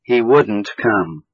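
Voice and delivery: slow, wouldn't leaned on; stress on wouldn't. Shown as a demonstration. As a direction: hit the word wouldn't. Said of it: "but we stress it in a negative sentence".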